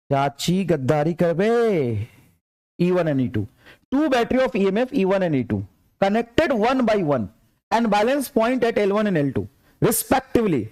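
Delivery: slow, deliberate dictation of the problem; reading the question aloud. Acted. Teacher reading a NEET question to students, slow dictation. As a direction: read it out word by word for the class.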